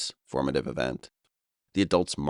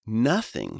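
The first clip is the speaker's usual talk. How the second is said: higher, bright gleeful nothing; giddy delight; 7 semitones higher, 3 dB louder than usual. Retold or imitated. Friend telling a scheme worked, with giddy delight. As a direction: relish the good news. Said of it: "he said with giddy delight".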